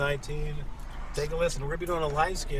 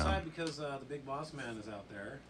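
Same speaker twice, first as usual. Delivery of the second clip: turned away from mic; 3 semitones lower, 8 dB quieter than usual. Real, not acted. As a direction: voice drifting off-mic, distant and faint. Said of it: "he doesn't even talk into the mic".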